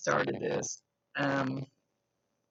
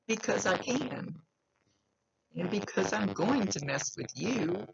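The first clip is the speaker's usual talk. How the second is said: a mild cocky tease, higher and slower; 6 semitones higher than usual. Retold or imitated. Medium voicing the spirit's cocky reply, mild tease. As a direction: relay it with a light smirk. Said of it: "He's being cocky".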